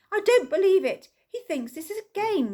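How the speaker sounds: high, loud exasperated wail; exasperated moan. Acted. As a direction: wail in despair at the game. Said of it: "moaned Missus Ellis".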